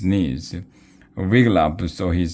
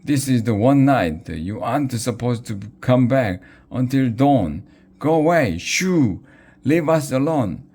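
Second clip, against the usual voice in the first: yelling in panic; 6 semitones higher than usual. A narrator's reading. Modi running in circles yelling at ghosts, high panicked shout. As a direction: shoo them off at the top of his voice.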